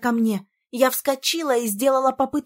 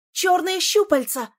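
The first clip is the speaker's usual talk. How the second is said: loud, higher warning shout; 6 semitones higher, 5 dB louder than usual. A narrator's reading. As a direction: cry out a warning of danger. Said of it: "прокричала я". (громкий предупреждающий крик)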